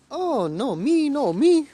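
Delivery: very high, loud drawn-out wail; mock protest.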